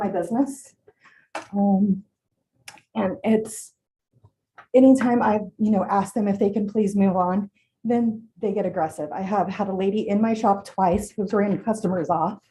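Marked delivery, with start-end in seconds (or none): 4.7-12.4 nervous, shaking voice; shaky voice. Real, not acted. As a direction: voice trembling with real nerves. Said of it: "My voice is shaking".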